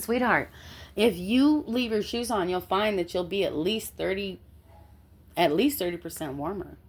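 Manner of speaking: lightly voiced patient mom; motherly. Telling a shivering cellmate to keep shoes on, motherly advice. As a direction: explain it like a mother to her child. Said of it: "talking like I'm a mom".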